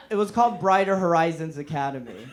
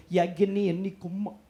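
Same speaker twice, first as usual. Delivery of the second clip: Yemeni tough guy. Retold or imitated. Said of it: "he'd be like this".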